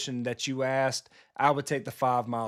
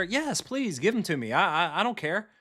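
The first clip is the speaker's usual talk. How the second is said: mock eager gamer; 5 semitones higher than usual. Mock gamer begging for card packs.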